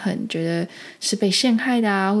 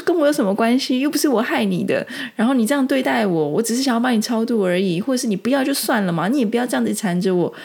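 angry retort; 4 semitones higher than usual. Retold or imitated. Retelling how she scolded the attacking ghost aunt, angry. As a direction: snap back, fed up and indignant. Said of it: "然后我就好生气".

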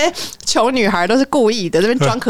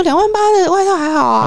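casual rich listener; 9 semitones higher than usual. Pretend. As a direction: shrug off the price like it's nothing. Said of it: "然后说".

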